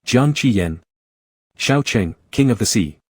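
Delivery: a hint of a small child, soft and sulky; soft childlike voice. A narrator's reading. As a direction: say it softly, like a pouting kid. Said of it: "softly in a childlike voice".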